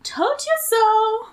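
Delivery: grinning told-you-so; sly grin. A narrator's reading. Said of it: "Martin said with a sly grin".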